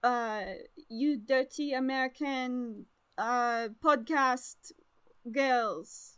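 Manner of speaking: halting mock French accent. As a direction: put on a clumsy French accent, searching for words. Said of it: "so they're gonna be like".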